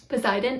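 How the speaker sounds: "Poseidon" as po-say-DON; "Poseidon" with pure vowels, accent at the end; Greek pronunciation. Shown as a demonstration. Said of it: "accent is on the last syllable".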